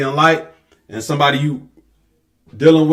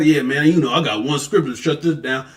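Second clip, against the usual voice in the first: lower, softer smug imitation; mock know-it-all; 4 semitones lower, 4 dB quieter than usual. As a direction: play the smug one-verse guy. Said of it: "act like".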